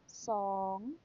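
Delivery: Song with a rising tone, drawn out slowly; modelling Thai "Song" for a class; Thai word song. Shown as a demonstration. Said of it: "What number is it?".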